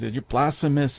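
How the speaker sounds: a hint of priestly outrage; scolding priest. Priest condemning the boy, lightly acted outrage. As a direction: condemn him, mildly acted. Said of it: "He's like".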